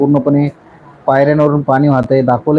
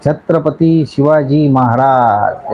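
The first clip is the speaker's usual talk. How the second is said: slogan; much slower than usual. Real, not acted. Salutes Shivaji with a slogan.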